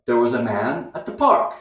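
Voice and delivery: There was a man, brief pause, at the park; strong, weak, weak, strong rhythm with a short break after man; pause before at the park. Shown as a demonstration. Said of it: "Strong, weak, weak, strong".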